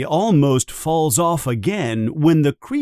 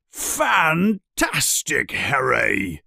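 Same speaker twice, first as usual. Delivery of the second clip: delighted yell; slower than usual. Acted. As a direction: stretch out the praise like a proud teacher. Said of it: "yells Hagrid".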